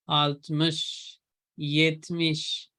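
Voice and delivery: आल्तमिश, येतमिश drawn out, ending in mish; teacher slowly modelling the numbers; slow careful demo. Shown as a demonstration. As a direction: slowly stretch each syllable of येतमिश. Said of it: "यहाँ पे मिश है".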